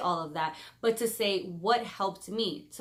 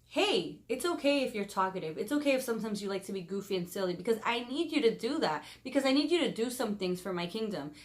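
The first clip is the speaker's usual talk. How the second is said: softer, soothing voice of God; a mild, soft-spoken take on God comforting her; gentle God voice; 4 dB quieter than usual. Retold or imitated. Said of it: "God started whispering in my ear".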